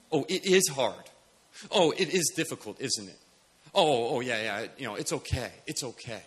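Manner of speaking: soft, soothing mock sympathy; coddling. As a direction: coddle them with a quiet, falling voice. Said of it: "that coddling fear".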